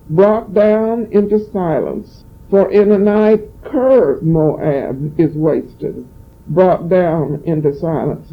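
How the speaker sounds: slow, solemn Bible reading; scripture reading. Acted. Pastor reading Isaiah to the church, slow and solemn. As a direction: lift the verse up slowly for the congregation.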